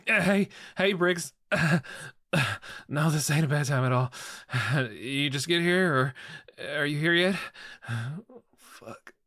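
loud, bright, fake-casual; forced cheerful. Answers client, faking composure.

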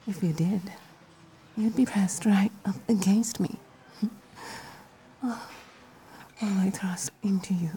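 breathy teasing whisper; seductive whisper. Acted. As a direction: whisper it close and playful.

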